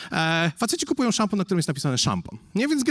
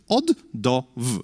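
slow slide read; 6 semitones lower, slower than usual. Shown as a demonstration. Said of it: "to, co napisałem na tym slajdzie".

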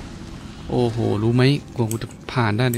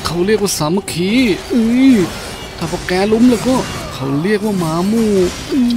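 taunting shout; 7 semitones higher, 3 dB louder than usual. Real, not acted. Taunting ganging-up enemies in game.

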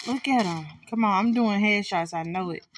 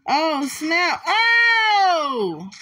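sudden loud scared yelp; startled cry; 6 semitones higher, 5 dB louder, much slower than usual. Real, not acted. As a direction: jump out of your skin. Startled by a monster.

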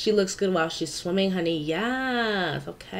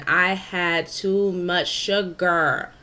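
slow sugar-high drawl; much slower than usual. Real, not acted. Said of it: "this voiceover all over the place".

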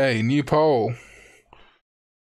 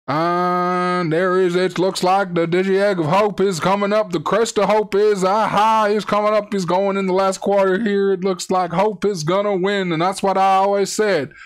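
hammed-up Terry Bradshaw commentary; mock play-by-play; 3 semitones higher than usual. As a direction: call the finish like live TV.

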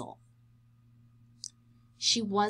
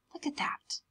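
whisper; 5 semitones higher, 9 dB quieter than usual. Acted. Hushed pointing out to listeners.

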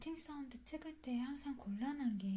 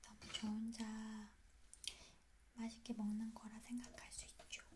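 shellfish at the lips; talking while eating; 6 dB quieter than usual. Real, not acted. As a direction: mouth partly full. Seen 1: holds small shellfish at lips throughout; chewing itself not clearly visible.

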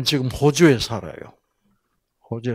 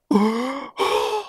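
amazed gasp; 12 semitones higher than usual. Acted. Amazed reaction.

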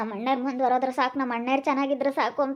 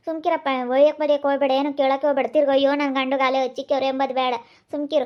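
louder, pressing plea to stop him; urgent pleading; 4 dB louder than usual. Acted. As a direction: beg him loudly not to go fight. Sister forbids brother fighting. (ಜೋರಾಗಿ ತಡೆಯುವ ಬೇಡಿಕೆ)

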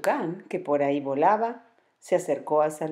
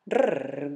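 growl. Acted. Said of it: "gruñó Omar".

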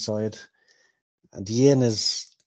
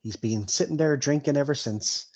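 higher-voiced, chatty innkeeper; 3 semitones higher than usual. Innkeeper tells Bilbo about the drinker at the bar, chatty. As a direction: gossip like a village innkeeper, pitched up.

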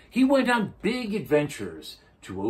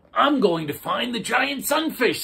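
Turtle voice; 13 semitones higher, 8 dB louder than usual. A narrator's reading. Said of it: "said Turtle".

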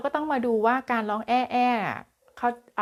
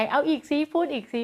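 eager parent; 5 semitones higher than usual. Retold or imitated. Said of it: "อุ๊ย เราก็ดีใจ อารามดีใจ".

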